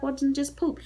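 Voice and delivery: retold husband. Husband's reply acted in retelling.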